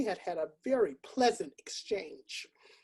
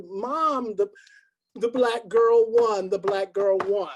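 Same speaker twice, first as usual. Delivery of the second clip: put-on louder, slow, child yelling the news; excited scream; 6 dB louder, slower than usual. Child announcing the winner to mother, loud. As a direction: shout the win to mom. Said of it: "I jumped up and I screamed".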